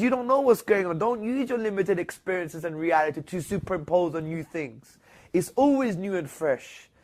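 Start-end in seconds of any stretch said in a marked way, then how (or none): 0.0-5.0 emphatic divine rebuke. Retold or imitated. Quoting God to the angels.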